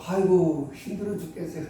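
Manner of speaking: a lightly voiced weary child, low and fading; whiny child. Kindergarten child voiced complaining. (힘들다고 칭얼대는 아이 흉내, 가볍게)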